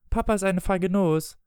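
put-on high-pitched boy's taunt; taunting child. Michael taunts his father over the medicine, high child voice. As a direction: pitch it up like a child needling a parent.

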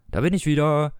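lightly projected announcement; calling out. A narrator's reading. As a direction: call out that you're back, without shouting. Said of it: "rief er". (leichtes Rufen)

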